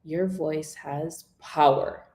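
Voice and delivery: "Your voice has" hushed, "power" hit with strength; whisper then strong. Shown as a demonstration. Coach contrasts whisper with a strong final word, hushed then strong. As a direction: hush the start, punch "power". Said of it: "whisper the first three words and then hit power".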